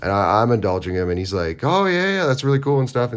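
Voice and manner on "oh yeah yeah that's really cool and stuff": high, loud, gushing agreement; enthusiastic chatterbox. Retold or imitated. Chatterbox opponent reacting to the player's answers, gushing enthusiasm. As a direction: imitate an over-eager friendly talker. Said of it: "he's a chatterbox".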